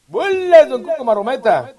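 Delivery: high excited call of a tumble; playful high cheer; mock announcer. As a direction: hype up the fall like a circus act. Cheering his own fall on video.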